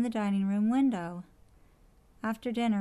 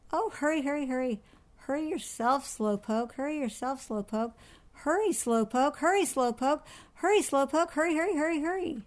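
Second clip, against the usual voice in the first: high, mocking parrot voice; nagging parrot mimicry; squawking parrot; 5 semitones higher than usual. A narrator's reading. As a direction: squawk it over and over, climbing higher.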